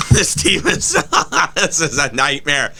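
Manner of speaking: laughing through the words; half-laugh, half-groan; laughing despair. Real, not acted.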